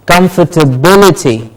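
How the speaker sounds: "Comfortability" as kum-fer-tuh-BIL-i-ty; stress before -ity. Shown as a demonstration. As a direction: model "Comfortability", weight on "bil". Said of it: "the syllable before ity is stressed".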